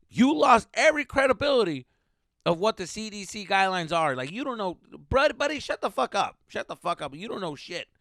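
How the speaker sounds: loud, high burst of exasperation; angry rant. Acted. Comic ranting at someone who lost all credibility, angry. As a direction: explode at a know-it-all, then ease off.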